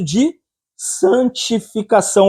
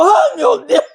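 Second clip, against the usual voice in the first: imitating longing sigh; slower than usual. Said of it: "ele falou".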